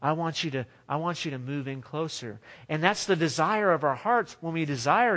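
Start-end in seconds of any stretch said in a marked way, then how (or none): 0.0-2.4 soft voice of God. Pretend. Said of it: "So God whispers 'cause he's like".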